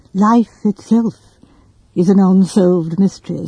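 a clergyman pronouncing gravely. Acted. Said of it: "said the clergyman gravely".

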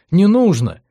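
loud, high, stressed НУЖНО; stubborn cry of "Не нужно!"; insistent no. A narrator's reading. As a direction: push back hard on "нужно". Elli refuses insistently.

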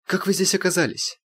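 high sharp demand; indignant question. A narrator's reading. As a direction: challenge the intruder. Irina confronts intruder.

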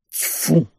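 disgusted spit; spitting. A narrator's reading. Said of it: "сплюнул капитан".

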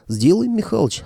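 glad, eager answer; delighted. A narrator's reading. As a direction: jump at the offer, pleased. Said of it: "обрадовался старый боец". (радостно)

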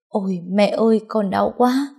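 mild cry of pain, pitch climbing; sudden pained cry. Acted. Daughter in labour pain on the phone to mother, crying out mildly. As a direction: cry out to mum in pain, understated. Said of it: "Tôi bất chợt kêu lên".

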